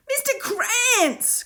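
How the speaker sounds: high, slow shouted name; boy shouting for the old man; cried out. A narrator's reading. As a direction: call out urgently across the alley. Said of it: "cried Will".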